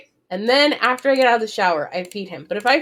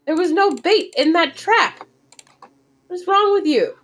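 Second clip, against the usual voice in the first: higher, louder exasperated scolding of the bird; exasperated disbelief; 6 semitones higher, 3 dB louder than usual. Real, not acted. Scolding a bird that flew into an empty trap, exasperated and raised. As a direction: berate the dumbest bird ever.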